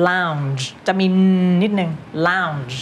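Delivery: "lounge" with a clear N before the final sound; audible N in lounge. Shown as a demonstration. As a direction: let the N hum briefly in "lounge". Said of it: "จะมี นิดนึง".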